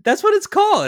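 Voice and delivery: high, loud, bursting into laughter; laughing. Real, not acted. Co-host laughing at her own spy term, laughing. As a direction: laugh through the words, fast.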